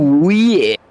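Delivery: loud cowboy drawl. Pretend. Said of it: "You sound like a cowboy".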